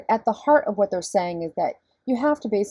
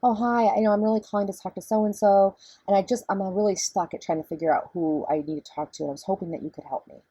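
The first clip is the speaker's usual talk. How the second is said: pitched up higher, sweet and helpful; little girl voice. Shown as a demonstration. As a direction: raise the pitch like a friendly little girl asking for help. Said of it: "I'll pitch it up high like this".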